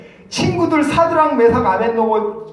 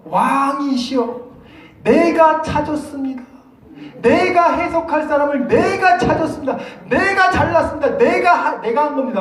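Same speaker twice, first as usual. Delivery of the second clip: higher, laughing, bragging about himself; boastful courtier; 6 semitones higher than usual. Acted. Arioch brags to the king, laughing boastfully. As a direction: puff up and take all the credit. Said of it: "아리옥이라는 놈이 골 때린 놈이에요".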